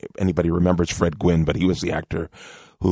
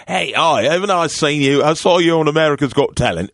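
excited fan voice; 7 semitones higher, 5 dB louder than usual. Retold or imitated. Waiter recognizes him, retold.

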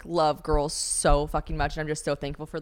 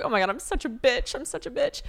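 mock dismay; 6 semitones higher than usual. Retold self-reproach, mock dismay.

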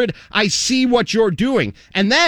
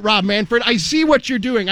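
sarcastic mock rant; 5 semitones higher than usual. Mock-dumb rant about distraction.

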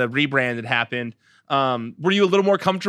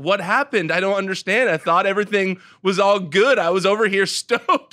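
higher-pitched retold bafflement; bewildered wondering; 5 semitones higher, 3 dB louder than usual. Candidate left hanging after a promised call, bewildered protest. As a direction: act out being left confused, voice lifted. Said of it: "you're just left wondering".

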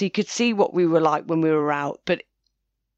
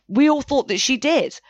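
whisper; 5 semitones higher than usual. Acted. Confiding aside in a retold quote.

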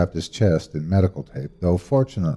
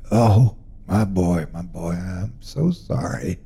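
weeping; slower than usual. Acted. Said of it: "quietly weeping".

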